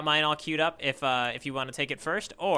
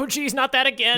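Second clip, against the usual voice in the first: Zoro voice; 9 semitones higher, 5 dB louder than usual. Retold or imitated. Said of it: "He's like".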